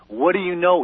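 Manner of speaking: retold demand with mild authority; authoritative interviewer. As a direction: put a touch of authority into the question. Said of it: "sounding really authoritative".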